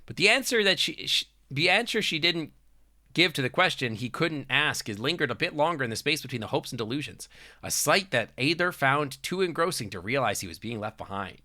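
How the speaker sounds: measured storybook reading; story narration. Acted. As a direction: read it out like story prose.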